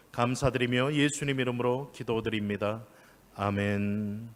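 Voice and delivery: measured public prayer, easing down at the close; pastoral prayer. Real, not acted. Leads the closing prayer.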